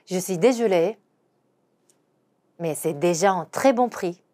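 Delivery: slow, "très" stressed; slow model sentence; slow repeat. Shown as a demonstration. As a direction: repeat slowly. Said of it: "한 번 더".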